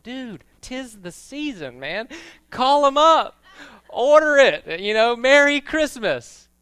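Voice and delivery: high, loud, hyped-up shouting; festive shout. Retold or imitated. A pastor hyping his brother to call up and order the new phone, shouting. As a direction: whip them into buying, yelling. Urging brother to buy iPhone.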